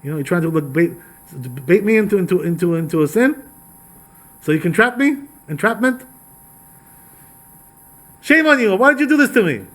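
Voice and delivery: starts hushed, climbs to a high, loud accusation; frightened woman rising to loud, high reproach; building outrage. Acted. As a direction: grow from a wary hush to an indignant cry. Witch confronts the disguised king.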